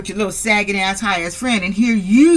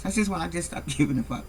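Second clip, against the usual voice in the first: laughing; 2 semitones lower, 8 dB quieter, faster than usual. Real, not acted. Laugh heard, repeated line.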